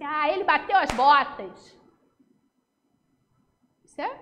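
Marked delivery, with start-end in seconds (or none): 0.0-1.8 crude. Shown as a demonstration. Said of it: "quando você diz assim".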